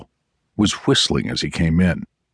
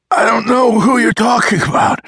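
high, louder, tearful cry of denial; a frightened captive crying out; 4 dB louder than usual. Acted. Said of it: "he cried".

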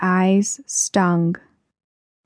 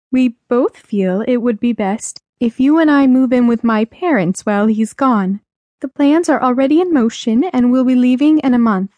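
higher-pitched mother's voice; higher, careful voice of a mother; mother breaking news; 4 semitones higher than usual. Acted. Mother telling her child they will move, higher voice.

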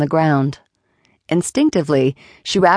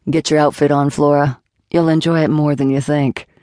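lightly lowered, firm man's voice; Jason's voice. Acted. Jason laying down the rules to Flora, lightly lowered voice.

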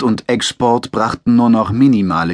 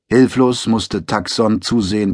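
ordinary delivery, nothing marked

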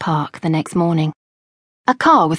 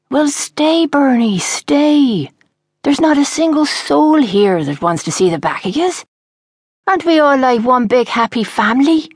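pleading Ray; 6 semitones higher, 4 dB louder than usual. Acted. Ray begs Bernie to stay.

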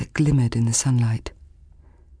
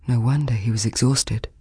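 ordinary delivery

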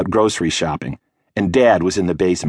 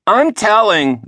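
higher little-sister tattle, a bit louder; tattling yell; 13 semitones higher, 4 dB louder, slower than usual. A narrator's reading. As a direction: sing out the threat like a small tattletale. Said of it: "the Squid yelled".

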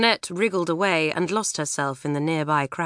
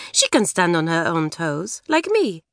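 put-on French accent. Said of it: "Stand on her own feet, you mean".

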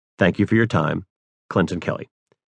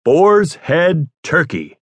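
slow, stretched, much higher announcer read; resonant radio announcer; 8 semitones higher, 3 dB louder, much slower than usual. Shown as a demonstration. Auditioning for the casting director, slow grand announcer voice. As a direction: boom it out like a radio host. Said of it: "produced my most resonant tone".

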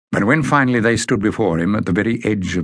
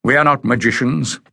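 exclaiming; 6 semitones higher than usual. A narrator's reading. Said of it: "exclaimed Bada".

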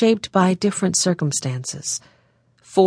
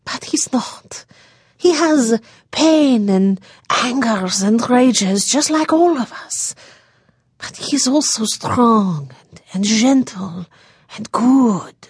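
slow, tearful and higher, defending him through tears; weeping daughter; 5 semitones higher, slower than usual. A narrator's reading. Daughter defending Jean to her mother, slow and tearful. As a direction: let the words break as she weeps. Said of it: "finally the sounds of weeping".

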